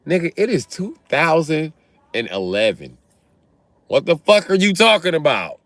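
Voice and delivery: high, irritated fatherly rant; grumpy old man fuming; imitating angry dad. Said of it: "My daddy was mad".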